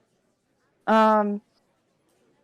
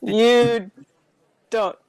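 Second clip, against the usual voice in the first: laughing; 4 dB louder, slower than usual. Real, not acted. Laughing while joking.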